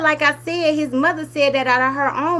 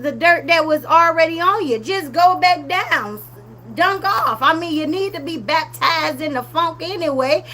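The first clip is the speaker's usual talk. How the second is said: sassy scolding; 4 semitones higher than usual. Real, not acted. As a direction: scold her like she's right there. Scolding woman at beach.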